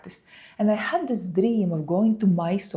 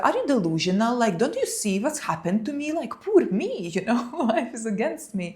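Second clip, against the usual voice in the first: mock self-pity, laughing; 3 semitones higher, faster than usual. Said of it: "I was like".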